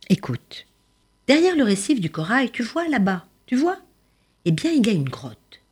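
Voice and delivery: lightly voiced starfish, ending in a whisper; a hint of a mysterious starfish; starfish confiding. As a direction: tell a secret, dropping to a whisper. Starfish telling of the octopus.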